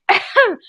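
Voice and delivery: staged throat-clearing cough; fake cough. Coughing to steer a visitor to the back entrance, fake cough. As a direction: cough to cover for the cats. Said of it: "I'm coughing and I'm trying".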